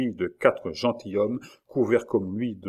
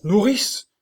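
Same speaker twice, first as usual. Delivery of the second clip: high, loud rising cry; louder call; 12 semitones higher, 5 dB louder than usual. A narrator's reading. Dying king calls his nurse, louder cry. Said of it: "cria le roi d'une voix plus forte".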